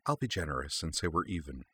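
sly soft aside; private aside. Acted. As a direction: slip it quietly into her ear. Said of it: "added privately into Kaname's ear".

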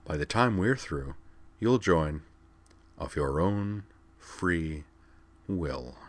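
quiet, slow, smiling menace; hint of a smile. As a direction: savor each word, quietly pleased. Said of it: "with a hint of a smile".

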